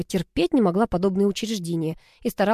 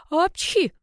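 sharp sneeze, much higher; 10 semitones higher than usual. A narrator's reading. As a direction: sneeze mid-sentence. Character sneezes. (чихнуть)

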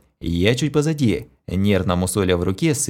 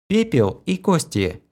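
lightly voiced Kira, slow and higher; slow female voice; 7 semitones higher than usual. A narrator's reading. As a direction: Kira answers slowly and a touch higher. Kira's voice in the dialogue.

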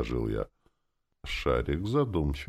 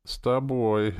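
higher-pitched sleepy reply; 9 semitones higher, 4 dB louder, slower than usual. A narrator's reading. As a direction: answer as if half asleep. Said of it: "сказала она сонным голосом".

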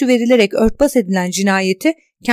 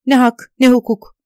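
bitter protest; 2 semitones higher, 5 dB louder than usual. Acted.

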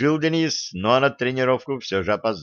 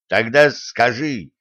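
angry bark; 4 dB louder, slower than usual. Acted. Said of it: "сердито рявкнул тренер".

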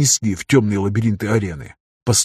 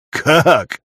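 mocking; 5 semitones higher, 4 dB louder than usual. A narrator's reading. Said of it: "усмехнулся тот".

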